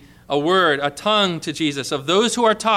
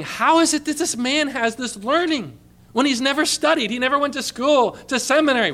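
raised, wondering voice of the crowd; marveling crowd; 5 semitones higher than usual. Acted. The astonished Jews asking how this man has learning, raised and wondering. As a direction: ask it amazed, as if you can't believe it.

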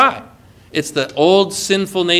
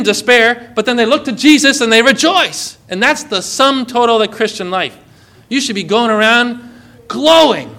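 rising preaching; 2 semitones higher than usual. Acted. Pastor assuring saints they are forgiven, building fervour. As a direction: preach it with mounting joy.

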